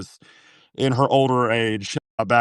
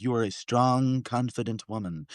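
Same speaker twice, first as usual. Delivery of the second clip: smoking tape voice; 6 dB quieter than usual. Retold or imitated. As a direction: intone like a hypnosis tape. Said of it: "Chandler from Friends smoking tape".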